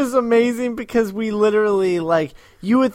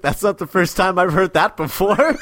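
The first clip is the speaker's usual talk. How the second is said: laughing. Retold or imitated. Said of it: "and she's like".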